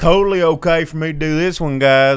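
loud, high hammed-up redneck twang; broad redneck accent, hollering and confident. Shown as a demonstration. Host showing which accents are okay to do, redneck accent. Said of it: "you can do redneck".

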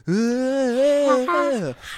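high, drawn-out mock-sultry wail; exaggerated sultry croon; sultry vocal riff. Shown as a demonstration. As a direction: imitate a sultry little sung swoop, loud and high. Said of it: "like, some sultry little".

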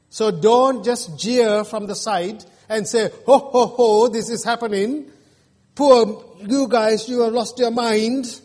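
lightly hammed-up mockery; mock scorn for the builders; jeering scoffer. Acting out scoffers on the side.

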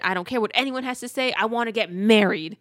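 freaking out. Retold or imitated. Bursting into the hotel room to demand a wedding, mock freak-out. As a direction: act her mildly freaking out, building to the last word. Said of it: "Freaking out".

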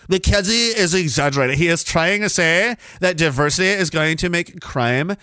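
lightly voiced sneering skeptic; mock sneering critic. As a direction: scoff like a smug critic. Imitating a dismissive critic.

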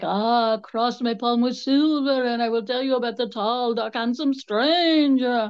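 lightly mocking carnival fortune teller. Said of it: "that I would be like".

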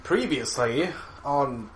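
slow, loud trailer voice; booming "previously on" narrator; TV recap announcer. Pretend. TV-style recap intro.

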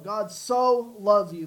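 "so" punched loud and stretched; stress on SO. Shown as a demonstration. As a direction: preach it with weight on "so". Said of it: "what if we emphasize so".

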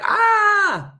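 sudden high shriek of alarm; hammed-up high alarmed cry; mock panicked shriek. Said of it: "'cause people are like".

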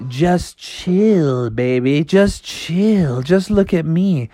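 lightly voiced chilled-out skater dude; a hint of mellow surfer cool; laid-back frog. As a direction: soothe the rabbit with drawn-out, easygoing words.

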